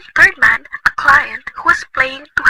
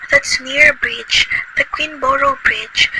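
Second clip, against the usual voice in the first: high, slow alarm on near; anxious realisation; dawning fear; 8 semitones higher, slower than usual. Acted. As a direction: let the fear rise as it dawns. Realising she lives near the bridge.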